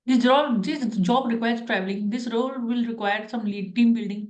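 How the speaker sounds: slow, deliberate interview answer; teacher slowly demonstrating the model interview answer. Shown as a demonstration. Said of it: "तो ऐसे करके आपको बोलना है".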